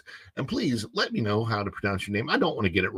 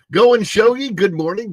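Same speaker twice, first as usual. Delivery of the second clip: excited greeting; 9 semitones higher, 9 dB louder than usual. Real, not acted. Greeting a viewer loudly.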